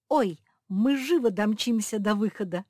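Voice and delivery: loud, high eager burst; excited. A narrator's reading. Josie jumps up eager to run, excited. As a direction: bounce with excitement. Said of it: "подпрыгнула Жози".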